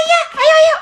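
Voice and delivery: loud eager yes, let's go; excited shout. Acted. Friend eagerly agrees to go to the canteen. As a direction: burst out cheering agreement.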